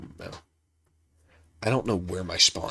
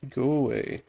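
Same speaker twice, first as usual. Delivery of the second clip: sharp, higher yell at mobs; 6 semitones higher, 6 dB louder than usual. Real, not acted. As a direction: shout them off, louder. Yelling at mobs in game.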